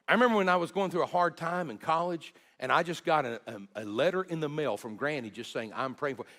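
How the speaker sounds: lightly voicing a laughing grandchild; cheerful retold memory. Grandchildren sharing fond memories.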